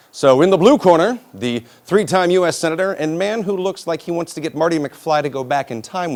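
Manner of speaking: mock ring announcer. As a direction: introduce him loudly like a boxing contender. Mock boxing introduction of senator.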